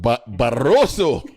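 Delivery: "Barroso" said slowly and loud, "bah-ROH-so"; proud pronunciation. Shown as a demonstration. Host proves to co-host he can say "Barroso", slow and loud. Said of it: "he can say Barroso very good".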